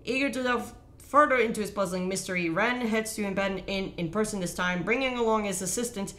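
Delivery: story synopsis read aloud. Real, not acted. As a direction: read the recap out as a narrator would.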